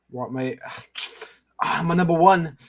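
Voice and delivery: bad Australian accent, hammed up; a clumsy fake Australian accent. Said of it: "He's doing a bad Australian accent".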